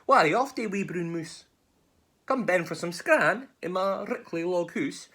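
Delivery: high, loud storybook snake; wily inviting snake. Acted. Snake inviting the mouse home for scran, high and coaxing. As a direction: play a snake coaxing its prey.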